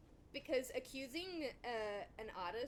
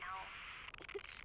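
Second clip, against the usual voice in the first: laugh; 3 semitones lower, 4 dB quieter than usual. Real, not acted. Laughing at the AI mistake.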